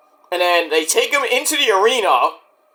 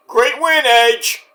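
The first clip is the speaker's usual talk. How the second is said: tag; 4 semitones higher, slower than usual. Pretend. Mock cheering the winner.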